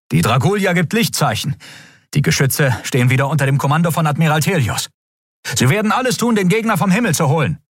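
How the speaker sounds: high, crisp officer voice; officer's report. A narrator's reading. First officer reporting the enemy's retreat, crisp. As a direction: report it up the chain.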